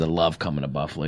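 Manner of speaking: low, quick, silly put-on accent; Chris Berman's stupid accent. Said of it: "say it in his stupid accent".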